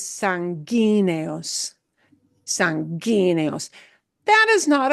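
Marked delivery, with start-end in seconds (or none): 0.0-1.7 "sanguíneos" drawn out slowly, punched on the GUÍ; stress on GUÍ. Shown as a demonstration. Teacher correcting a likely misreading, "sanguíneos" stressed on GUÍ. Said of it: "We're punching that E sound harder". 2.4-3.7 slow "sanguíneos" with the force on GUÍ; stress on GUÍ. Shown as a demonstration. Teacher repeating the word for learners, "sanguíneos" stressed on GUÍ. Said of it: "We're punching that E sound harder".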